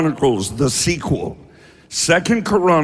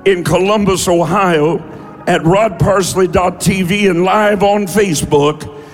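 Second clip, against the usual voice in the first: forceful, sustained preacher's proclamation; prophetic prayer declaration. Real, not acted. Prays and declares prophecy to congregation.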